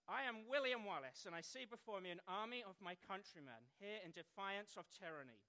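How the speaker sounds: battle address, loud at the start then easing; William Wallace. Acted. Film hero addressing his countrymen, declaimed opening that eases off. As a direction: proclaim it to the army, then settle. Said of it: "William said".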